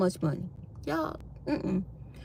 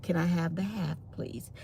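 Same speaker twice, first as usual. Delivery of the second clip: timid request; 4 semitones lower, 11 dB quieter than usual. Retold or imitated.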